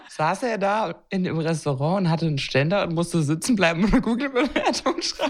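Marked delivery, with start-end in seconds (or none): 3.8-5.3 high, laughing through the question; can barely finish for laughing. Real, not acted. Host laughing at her own dirty joke, high giggle.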